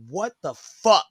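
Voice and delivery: teacher's outraged outburst at the phone, mock. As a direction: imitate the teacher's shocked outburst. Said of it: "is like".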